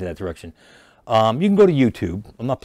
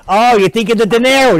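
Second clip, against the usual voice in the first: much higher and louder, a put-on voice for the wedding guests; mocking guests; 12 semitones higher, 11 dB louder than usual. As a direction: squeal like nosy guests doubting the lookalike. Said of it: "guests are going".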